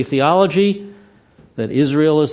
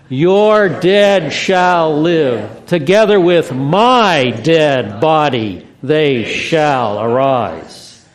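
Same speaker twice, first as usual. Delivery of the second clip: put-on broad singsong kids theatre; 2 semitones higher, 5 dB louder, much slower than usual. Shown as a demonstration. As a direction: lead the crowd in a big shout. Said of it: "say it loud and enthusiastically".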